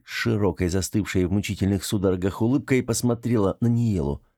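plain reading voice

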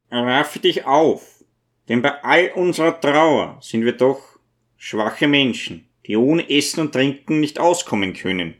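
lightly voiced old cleric; mild, lightly acted priestly exhortation; gentle old priest, urging. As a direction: urge a mourner kindly to pull himself together.

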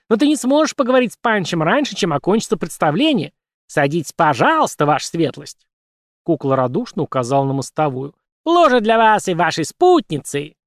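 high chirping puppet voice; chirpy puppet. Acted. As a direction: chirp it out gleefully. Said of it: "прочирикала кукла".

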